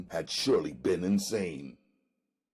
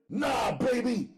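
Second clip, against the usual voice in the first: coldly; 4 dB louder than usual. Acted. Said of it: "I stated coldly".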